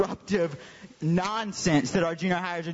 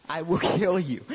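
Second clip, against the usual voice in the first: laughing threat. Retold or imitated. Laughing while repeating his mock threat.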